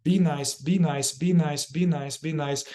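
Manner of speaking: quick repeated command, easing off at the end; rapid fire. Shown as a demonstration. Facilitator demonstrating the lifelong inner command, rapid-fire. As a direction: repeat it briskly like a drill. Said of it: "I kind of rapid fire this".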